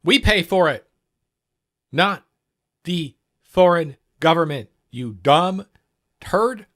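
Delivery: loud, furious yell at the screen; angry yell. Real, not acted. Reacting to the president's lawyer on video, a real furious yell. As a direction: shout him down in real anger.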